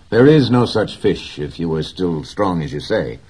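put-on a boy reassuring the old man firmly; boy's voice. A narrator's reading. Boy's voice in read story.

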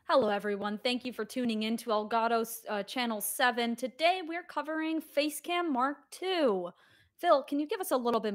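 lightly put-on news reporter, slowing at the end. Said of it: "the news reporter voice".

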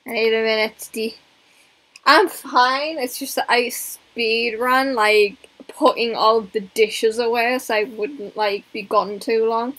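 breathless from rushing; catching breath after hurrying. Real, not acted. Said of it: "That's why I sound out of breath".

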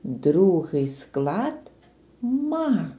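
very slow, «ма» said on its own; syllable said apart. Shown as a demonstration. Teacher naming the second syllable «ма» slowly. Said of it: "а другий?".

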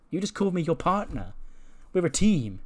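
gushing like a thrilled tag partner; happy, excited. Retold or imitated. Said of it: "looks at Becky really happy".

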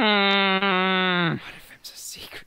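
slow, drawn-out secret whisper. Acted. Slowly whispering the secret to his friends again.

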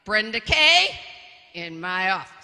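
loud, stern full-name summons; a father calling his daughter to account; stern dad. Retold or imitated. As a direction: use the middle name like trouble is coming. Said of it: "if they say your middle name".

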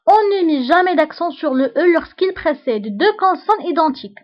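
slow, deliberate dictation of a rule; dictating to a class. Shown as a demonstration. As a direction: read it out slowly so students can write. Teacher dictates French rule.

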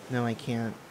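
usual speaking voice

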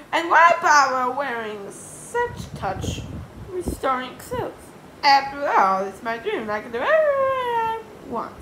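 high, loud character voice; Miss Anthrope carried away. Acted. Miss Anthrope deciding it's her dream, high and loud.

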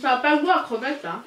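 talking with a mouth full. Real, not acted. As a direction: speak through a bite. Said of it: "parler la bouche pleine".

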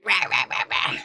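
repeated playful monster rahs; mock roar. Shark threatening to force them out, mock roaring. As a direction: growl out a pretend roar.

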